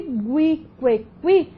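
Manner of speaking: gui, que, qui as gwi, kwe, kwi; gui, que, qui with audible diphthongs; U pronounced. Shown as a demonstration. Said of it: "você tem pronúncia do U".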